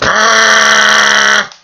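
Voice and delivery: a long high piercing yell held out; loud high scream, redone and held out longer. Shown as a demonstration. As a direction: let out a full high scream. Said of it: "Much better".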